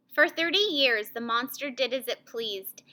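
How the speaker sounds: grave narration dropping to a hush; ominous, softening story reading; serious mood. Shown as a demonstration. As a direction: let it sink to near-whisper by the end. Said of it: "make my voice match that feeling".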